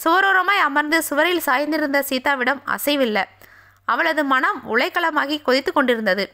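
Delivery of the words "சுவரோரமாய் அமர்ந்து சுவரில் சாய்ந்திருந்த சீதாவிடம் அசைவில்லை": usual speaking voice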